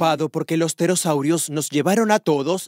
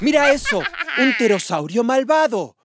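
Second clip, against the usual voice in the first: alarmed shout; 6 semitones higher than usual. Acted. Spots the evil pterosaur, alarmed.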